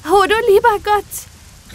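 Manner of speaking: put-on rescued boy crying out to God in delight; joyful cry. A narrator's reading. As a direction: burst out in grateful joy. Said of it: "rief er freudig".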